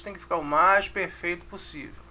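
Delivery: normal talking voice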